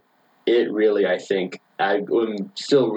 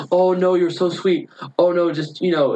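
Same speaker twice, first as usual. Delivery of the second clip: a hint of a kindly housekeeper; sweet housekeeper; 8 semitones higher than usual. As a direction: gush sweetly to dismiss the fuss. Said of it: "super sweet, uh, like, lady".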